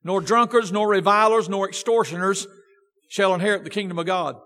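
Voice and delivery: measured, solemn Bible reading; scripture reading. Acted. Preacher reading the text to his congregation, solemn and measured. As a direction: read the King James verses with weight. Reads scripture aloud before sermon.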